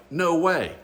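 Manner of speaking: a high, loud burst of disbelief; stunned no way. Retold or imitated. To himself as his ex-wife pulls up, high loud disbelief. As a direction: blurt it out, unable to believe it.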